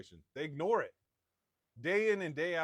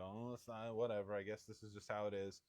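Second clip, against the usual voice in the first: softer, lower shrug of acceptance; mock resignation; 3 semitones lower, 5 dB quieter than usual. Spouse putting up with a bad marriage, resigned and low. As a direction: half-heartedly give in, voice dropping.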